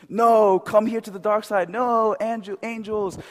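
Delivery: high, lightly dramatized calls; skit voices. Retold or imitated. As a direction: call it out like a stage skit.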